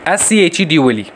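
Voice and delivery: name each letter of the word in turn; spelled out. Shown as a demonstration. Teacher spelling a word for the class, letter by letter. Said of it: "ये word कैसे spell करते हो".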